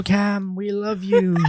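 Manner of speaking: high, drawn-out adoring cheer; mock peasant army. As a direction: imitate a crowd of peasants hailing their god. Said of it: "your peasant army saying".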